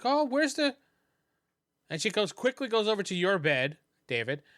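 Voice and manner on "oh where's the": high, searching voice; high-pitched worried question; startled woman. Acted. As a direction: play a woman alarmed at something missing. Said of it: "She's like".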